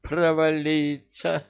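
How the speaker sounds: high, slow exasperated groan. A narrator's reading. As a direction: groan at the bad timing. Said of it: "простонал король джиннов".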